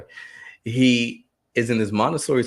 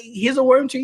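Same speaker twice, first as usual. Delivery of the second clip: much higher, cheering praise; excited praise; 5 dB louder than usual. Retold or imitated. Parent praising little son on the potty, high cheer. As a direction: cheer the toddler on.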